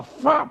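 whooshing stab noise by mouth; sudden burst of air for a stab; comic sound effect of a blade; imitated sword thrust. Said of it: "y la hago así".

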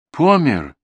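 high, loud startled cry; startled, high-pitched fright; frightened question. A narrator's reading. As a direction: gasp it out in alarmed disbelief. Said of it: "испуганно спросила Дуковна".

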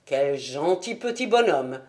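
butter up the mother with a compliment; a hint of tactful charm from Holmes; diplomatic. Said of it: "dit Holmes avec diplomatie".

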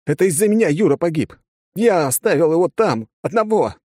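nearly a shout. A narrator's reading. Soldier to the colonel, breaking into a shout. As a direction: build to a near shout of guilt. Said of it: "прогремело уже чуть ли не криком".

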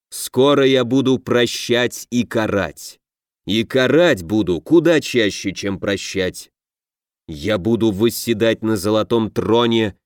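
slow, pompous half-orc, every word spelled out; half-orc lectures the foolish witch, pointedly slow; deliberately slow. Acted. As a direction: explain it slowly to a fool, full of pride. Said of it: "проговаривая слова нарочито медленно".

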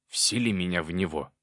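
insistent little demon voice; demanding demon. A narrator's reading. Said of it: "потребовал Проныра".

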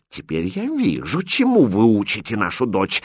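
barely contained anger; queen seething, holding back her temper; restrained angry hiss. Acted. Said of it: "едва сдерживая гнев, прошипела королева". (сдерживая гнев, шипит)

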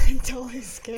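laughing through a nervous admission; laughing scared. Real, not acted. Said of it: "That's freaking me out".

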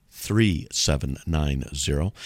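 slow. Shown as a demonstration. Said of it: "people will call me up ... and speak really slowly".

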